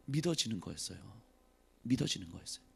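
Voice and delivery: soft, low, hushed; hushed repeat. Real, not acted. Preacher softly repeating to the congregation, hushed. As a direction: let the words sink in quietly.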